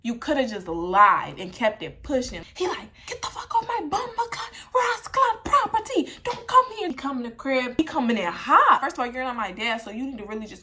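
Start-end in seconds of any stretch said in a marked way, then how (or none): 3.1-6.9 mock angry stepdad. Boyfriend yelling off his property.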